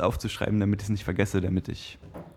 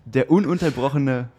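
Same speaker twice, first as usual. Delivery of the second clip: slow, drawn-out fight introduction; boxing ring announcer; slower than usual. Acted. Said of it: "du hast dich übertroffen".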